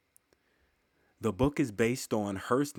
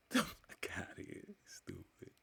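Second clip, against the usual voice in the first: whispered, laughing brush-off; laughing whispered dismissal; 10 semitones higher, 12 dB quieter than usual. Real, not acted. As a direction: toss it away under your breath with a laugh.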